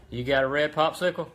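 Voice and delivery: daddy teasing out an answer. Real, not acted. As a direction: ask your little one, voice lifted. Asking his small child about a treat.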